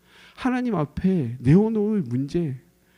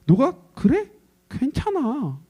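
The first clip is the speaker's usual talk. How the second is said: tender reassurance; 8 semitones higher, slower than usual. Acted. God's tender reassurance voiced.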